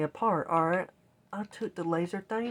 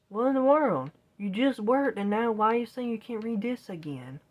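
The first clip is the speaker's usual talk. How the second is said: incredulous complaint at a console; exasperated disbelief; 3 semitones higher than usual. Retold or imitated. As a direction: throw up your hands at the machine. Exasperated at the broken GameCube.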